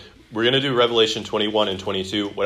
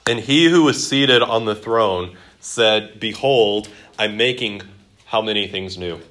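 measured, formal Bible reading voice; scripture reading. Acted. Teacher reading Revelation aloud to the class, solemn and measured. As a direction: read it out with weight and ceremony.

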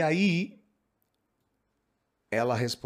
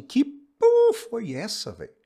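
angry outburst; 12 semitones higher, 9 dB louder, much slower than usual. Acted. Daughter snaps during family quarrel.

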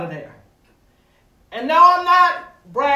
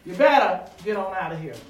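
mock warning; 5 semitones lower, faster than usual. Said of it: "That was probably what the voice said".

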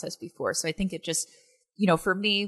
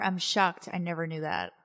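forced shock; 4 dB quieter than usual. Shown as a demonstration. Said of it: "I forced it".

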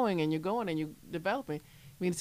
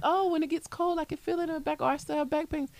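much higher, whiny complaining voice; imitating complaining patients; 8 semitones higher, faster than usual. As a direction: mimic people moaning about back pain. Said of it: "I've heard people like".

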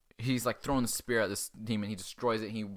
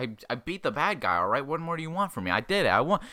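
higher, rising mock-exasperated kid; indignant protest; 5 semitones higher, 4 dB louder than usual. Kid defends his win to the teacher, indignant. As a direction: argue back, louder as you go.

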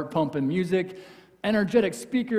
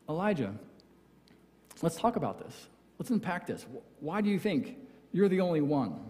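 softer, patient, inviting; gentle God; 4 dB quieter than usual. Retold or imitated. God speaking gently to Elijah, softer and patient. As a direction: coax him to talk it through kindly. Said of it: "If this is a gentle whisper".

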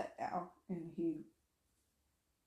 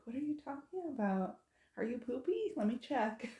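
put-on higher-pitched questioning of a small child; lilting, higher mom-to-toddler voice; acted puzzled mom; 6 semitones higher than usual. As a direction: re-enact a baffled mother's questions. Mother questioning toddler in story.

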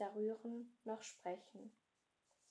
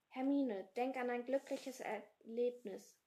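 urgent call to Hermine, louder; Harry calling urgently to Hermine, raised voice; 3 semitones higher, 6 dB louder than usual. Acted. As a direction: call out to her over the danger. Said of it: "rief Harry".

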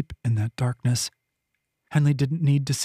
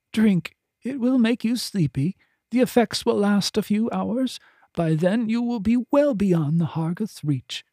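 a higher, urgent voice pressing each instruction; insistent healer; 7 semitones higher than usual. Acted. Finta handing over the drugs, higher and insistent. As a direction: drive the orders home, no room for refusal. Finta offers the sleeping draught.

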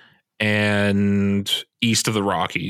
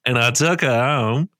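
hammed-up Aussie yarn-spinner accent; Australian accent; 2 semitones higher than usual. Co-host spinning a mock night-out yarn, Australian accent. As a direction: tell it as a broad Australian tall tale. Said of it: "really good Australian accent".

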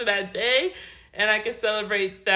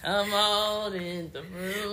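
slow, drawn-out church lady; old church lady voice; 4 dB quieter, slower than usual. Retold or imitated. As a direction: beckon like an old church mother. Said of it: "old lady voice".

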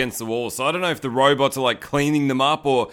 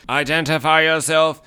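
light imitation of a robot's command; a hint of a robot guard's demand; 3 semitones higher, 4 dB louder than usual. Killer robot challenging the janitor, lightly imitated robot voice.

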